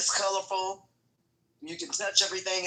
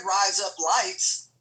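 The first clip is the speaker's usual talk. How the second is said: slow, drawn-out "Rise up, lights"; said slowly; much slower than usual. Shown as a demonstration. Repeating the phrase after being cut out, slow and deliberate. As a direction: stretch each word out deliberately. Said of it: "You said it slowly".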